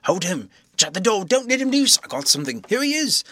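high, loud chaotic yells; frantic shouting. A narrator's reading. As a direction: shout over each other in a brawl. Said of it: "A perfect babel of noises".

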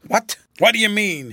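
loud, high, startled demand. A narrator's reading. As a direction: burst out in alarm. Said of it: "he stammered".

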